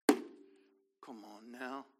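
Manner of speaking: very slow, stretched out; a slow preacher's call; slow drawn-out exhortation. Real, not acted. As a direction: draw each word out. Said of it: "could I preach".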